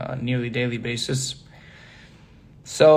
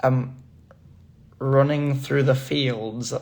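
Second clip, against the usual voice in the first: slow, drawn-out attempt at a Preston accent; tentative Preston accent; much slower than usual. Shown as a demonstration. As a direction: try out a Preston, England accent, stretching the words. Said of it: "My best Preston accent?".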